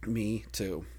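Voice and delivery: hushed, voiceless agreement; whispered. Real, not acted. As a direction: whisper it as if in a cinema. Whispered movie-theater agreement.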